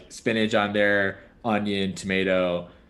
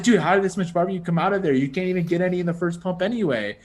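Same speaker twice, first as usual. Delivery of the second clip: higher, fast, incredulous rush of words; disbelieving rant; 5 semitones higher, faster than usual. Retold or imitated. Replaying her shock at the barbecue sauce, fast and higher. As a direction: blurt it out like you can't believe what just happened.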